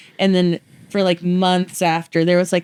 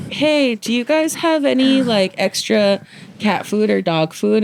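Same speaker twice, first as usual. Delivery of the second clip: slow neighbor lady voice; 4 semitones higher, slower than usual. Retold or imitated. Neighbor lady quoted asking.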